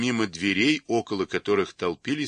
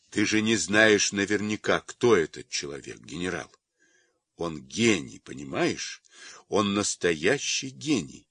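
ordinary delivery

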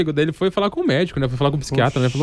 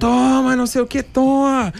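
play-acted, very high, stretched-out shouting; 9 semitones higher than usual. Telling a joke, the speaker acts out the husband pretending to be beaten, retelling a shout. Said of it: "começou a gritar".

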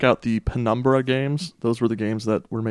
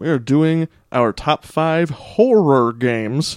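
slow, deliberate, measured, careful delivery; 4 semitones higher, 4 dB louder than usual. Answering the host's question about today's segment, said slowly on purpose. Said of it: "you said that slowly".

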